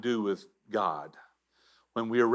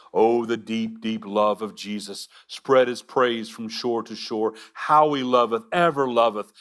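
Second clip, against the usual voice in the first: hymn recitation. Acted.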